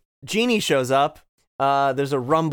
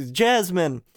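second try at a hero's call, moderately raised; higher-pitched heroic impression, short of falsetto; Aladdin; 5 semitones higher than usual. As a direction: call the name ardently, falling at the end. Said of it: "in Aladdin voice goes".

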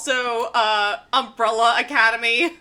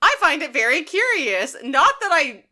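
George acted; 2 semitones higher than usual. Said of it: "And George is like".

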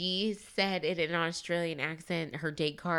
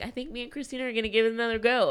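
mock Blake boast; 7 semitones higher, faster than usual.

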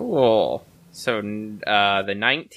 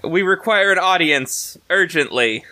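a touch higher and slow, timid courtly request; nervous formal address; 5 semitones higher than usual. Acted. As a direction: politely call up to the sleeping queen. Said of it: "I yell up to the giant spider woman".

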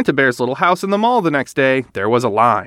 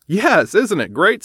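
Papa Bear; 6 semitones higher than usual. Acted. Papa Bear voiced in story.

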